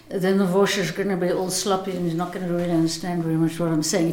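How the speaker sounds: slurred, run-together words on "gonna be all sloppy"; exaggerated sloppy diction. Shown as a demonstration. Actor showing what an unexercised voice sounds like, sloppy diction. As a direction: let the articulation go slack, words sliding into each other. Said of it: "I'm exaggerating".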